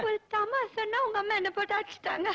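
tearful tale of woe; hammed-up weepy voice; crying. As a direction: complain through mock sobs. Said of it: "என்ன செல்லம்மா அழுதுட்டு வர்ற?".

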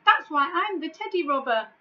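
high, loud sorrowful wail; wailing giant. Acted. The giant wails why he became the teddy robber, high and loud. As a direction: keep wailing in misery.

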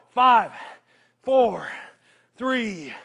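loud, punchy count; loud countdown. Real, not acted. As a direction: bark the count to push them. Counting down the set.

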